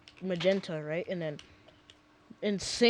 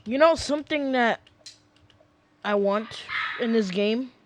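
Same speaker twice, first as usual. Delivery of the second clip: put-on southern accent; 3 semitones higher, 4 dB louder than usual. Gamer musing to viewers in a Southern accent. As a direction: slip into a joking Southern accent mid-sentence. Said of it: "I said that in a southern accent".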